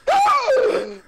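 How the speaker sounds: huge, high, loud gasp with a laugh in it; shocked gasp. Acted. Nick hears Judy is pregnant, gasping in shock. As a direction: gasp as if the floor dropped out. Reaction image.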